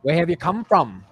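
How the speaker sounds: playful imitation of a British accent. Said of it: "Like, that accent".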